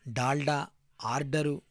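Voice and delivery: each word said apart, clearly, for writing down; dictation voice. Shown as a demonstration. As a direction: dictate it to the class. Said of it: "ఉక్తలేఖనంగా ఇవ్వాలి".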